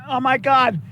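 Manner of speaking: strained, cramping leg; pained plea through a cramp; getting a leg cramp. Real, not acted. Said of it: "I'm getting a freaking leg cramp".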